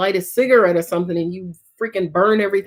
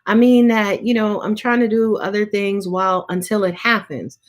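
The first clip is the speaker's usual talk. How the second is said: mock client protest; 3 semitones higher than usual. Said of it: "go ahead and say to me".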